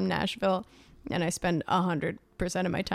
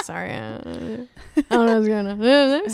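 retold Southern accent. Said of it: "I'm like".

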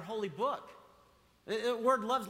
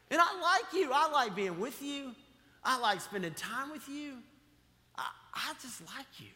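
high and loud, gushing; beaming God saying he likes you; joyful declaration; 5 semitones higher, 3 dB louder than usual. Retold or imitated. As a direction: burst out with delight. Voicing God, excited.

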